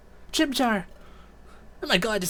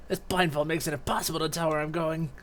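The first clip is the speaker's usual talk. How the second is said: lightly voiced worried prisoner; blindfolded captive; 4 semitones higher, 5 dB quieter than usual. Blindfolded captive wondering where they are taking us, lightly voiced worry. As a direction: fret softly, jumping high on the question.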